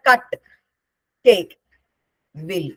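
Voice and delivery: CUT, CAKE, WILL each stressed on its own; stressed words. Shown as a demonstration. Teacher showing where stress falls, stressing cut, cake, will. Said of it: "stress നമ്മൾ എങ്ങനെ കാണിക്കുക".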